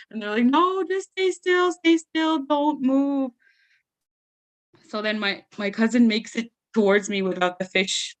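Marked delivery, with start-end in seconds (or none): 0.6-3.3 urgent hush. Retold or imitated. Cousins warn her about fish.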